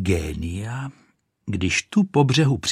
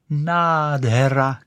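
slow joyful cry; 5 semitones higher, 3 dB louder, much slower than usual. Acted. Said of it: "křičela".

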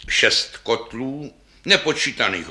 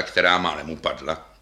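usual speaking voice

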